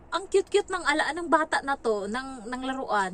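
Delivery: high cooing over a cute toy; mock-sweet gushing voice. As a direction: coo over it like it's adorable. Retelling her own gushing over toy.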